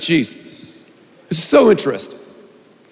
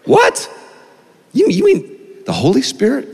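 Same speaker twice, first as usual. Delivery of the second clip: much higher startled what; mock astonishment; 6 semitones higher than usual. Preacher feigning shock at the Bible verse, much higher.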